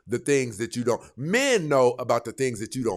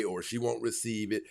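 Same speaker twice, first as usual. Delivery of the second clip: usual speaking voice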